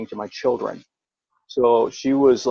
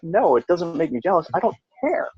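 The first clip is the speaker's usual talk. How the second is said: higher-pitched, emphatic mock retort; retold dismissive denial; 5 semitones higher than usual. Denying jealousy to the ex, dismissive. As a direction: brush it off, pitch jumping up.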